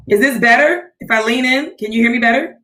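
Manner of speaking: echoey empty room sound; echo chamber. Real, not acted. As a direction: talk in a bare echoing office. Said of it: "sounds like you're, like, in an echo chamber".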